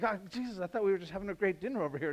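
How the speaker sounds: mock dismay.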